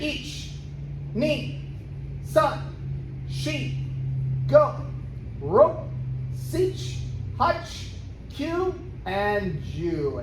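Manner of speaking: barked Japanese count; sharp martial arts commands. Shown as a demonstration. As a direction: call each count like a sensei. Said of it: "I'm counting in Japanese".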